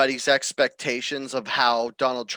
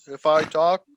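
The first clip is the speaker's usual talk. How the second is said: deep chesty voice. Shown as a demonstration. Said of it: "Maybe I should talk like that".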